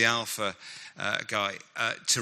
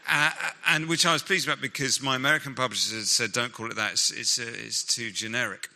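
put-on Nicky's British accent; 2 semitones higher than usual. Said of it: "I'm gonna stop doing the accent here".

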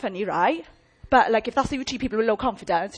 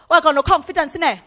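mimicking a client; 3 semitones higher, 7 dB louder, faster than usual. Preacher mimics a whiny client.

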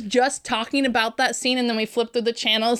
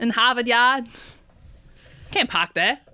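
Boston accent, no R's. Shown as a demonstration. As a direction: imitate a Boston commercial. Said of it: "do a Boston accent".

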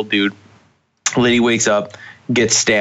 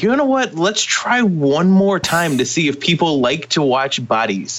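mock producer voice; 6 semitones higher, slower than usual. Quoting the show makers.

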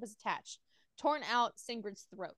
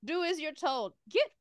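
dark lord; 4 semitones higher, 6 dB louder, slower than usual. Acted. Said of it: "the female in the coffin".

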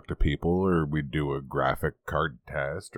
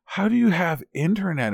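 incredulous American; 12 semitones higher than usual. Retold or imitated. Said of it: "And he's like".

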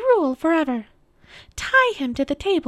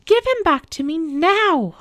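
very high, loud witch's tirade; screaming witch; 12 semitones higher, 6 dB louder than usual. A narrator's reading. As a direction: accuse and demand in a high, forceful witch voice. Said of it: "the witch screamed at Aslan".

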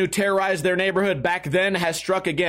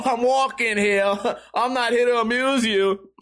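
mock Italian accent; 4 semitones higher than usual. Teller replays his barroom taunts, mock Italian accent. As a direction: repeat the taunts in a put-on Italian accent, amused. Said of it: "making fun of his Italian accent".

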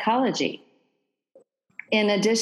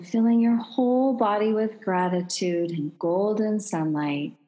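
calm meditative tone. Acted. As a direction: ease them into calm breathing. Leads a guided breathing meditation.

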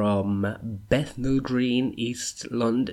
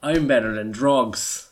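proud declaration; 3 semitones higher, 9 dB louder, slower than usual. Acted. Repeats line louder and slower.

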